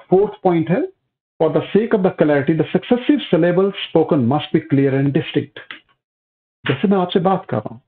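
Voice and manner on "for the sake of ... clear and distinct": reads the point out word by word, very slowly; slow dictation. Acted. Teacher to class, dictating a point slowly for notes. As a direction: spaces every word so students can copy.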